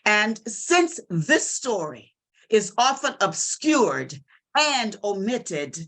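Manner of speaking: measured, dramatic recitation with deliberate pauses; poem recital. Acted. Mother asking what to tell her Black children, dramatic poem recital. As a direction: recite it in weighty phrases, building in emphasis.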